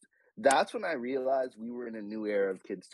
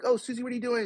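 put-on higher, sing-song British child; British cartoon accent; 12 semitones higher, much faster than usual. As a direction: chirp it like a polite British kid. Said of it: "said it back to me in a British accent".

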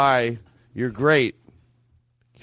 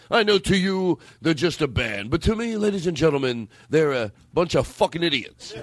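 Rodney; 5 semitones higher than usual. Retold or imitated. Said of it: "That's like Rodney's band. He used to go".

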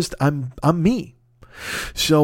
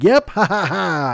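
mock laugh in a higher voice; gleeful teasing; 4 semitones higher, slower than usual. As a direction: imitate a friend gloating with a ha-ha-ha. Imitates listener's gleeful reply.

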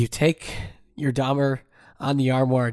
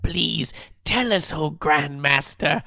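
grand mock ceremonial call, higher; hushed creepy legend telling; 5 semitones higher than usual. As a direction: gather the villagers for the oracle. Mock ceremony awaiting the letter.

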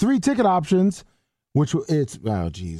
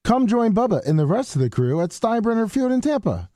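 announcer voice; 2 semitones higher than usual. Acted. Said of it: "announcer-like".

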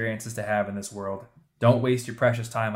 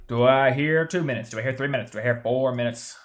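calling out bids like an auctioneer; mock auction patter. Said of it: "a auctioneer voice in your head".

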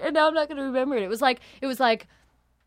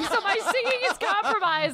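higher, giggle-compromised explanation; laughing; 6 semitones higher than usual. Real, not acted. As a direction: talk through real laughter. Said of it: "I'm laughing".

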